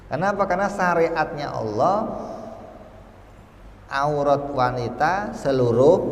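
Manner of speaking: fervent preaching. Acted. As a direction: drive the point home to the congregation.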